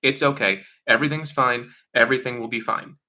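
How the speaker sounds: pat someone on the head while pretending all is fine; mock soothing denial. Mother brushing off a bad thing, mock soothing. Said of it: "they go".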